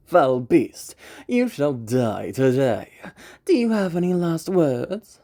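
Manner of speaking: confident warrior voice; dominant hunter. Shown as a demonstration. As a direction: lord it over the beast, full of swagger. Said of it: "To give a very easy example".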